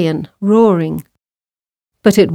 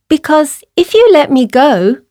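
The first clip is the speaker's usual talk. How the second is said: high pleading mouse voice; little mouse; 7 semitones higher, 4 dB louder than usual. A narrator's reading. Mouse bargaining with lion, high little voice. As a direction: bargain as a tiny mouse, pitched up. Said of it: "replied the mouse".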